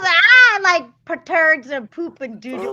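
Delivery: put-on high laughing baby voice; laughing baby talk. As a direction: giggle through silly baby talk. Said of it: "I sound like I'm talking to a little baby".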